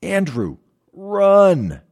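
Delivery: high, loud shout building to the last word; retold urgent command, belted out; coach's yell. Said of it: "He yelled simply".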